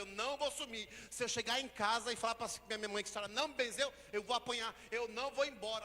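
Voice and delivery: put-on loud, fast childish protest; boy afraid of a beating at home; desperate pleading. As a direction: beg not to be sent home. Child pleads fearing punishment.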